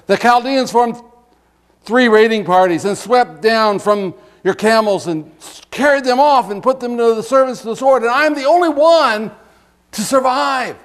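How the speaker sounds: dramatic reading of a messenger's alarm; urgent messenger. Acted. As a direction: report the raid with mounting urgency. Next messenger reporting a raid.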